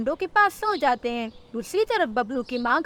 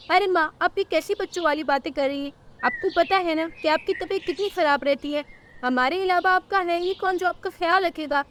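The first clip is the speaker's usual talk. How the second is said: higher-pitched concerned bird son; remonstrating son; 5 semitones higher than usual. Acted. Bablu tells mother her health is poor, remonstrating.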